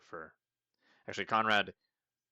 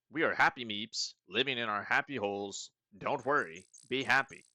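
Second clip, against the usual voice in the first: louder, cheerful groovy hippie sing-song; hippie creature; 3 semitones higher, 6 dB louder than usual. Acted. Meep telling the visitor about happy holes, cheery hippie voice. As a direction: sell the peace-and-love vibe. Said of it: "Is that why he talks like that?".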